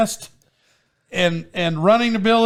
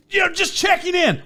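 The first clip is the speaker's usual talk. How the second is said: very high, put-on chirp; high-pitched imitation of checking in; radio check-in voice; 14 semitones higher than usual. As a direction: pipe up in a high mock radio voice.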